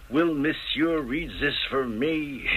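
mock French lady. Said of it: "She kinda sidles up to the mark".

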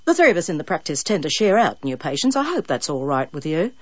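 light Australian dentist voice; hint of Australian accent. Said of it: "unreconstructed Australian accent".

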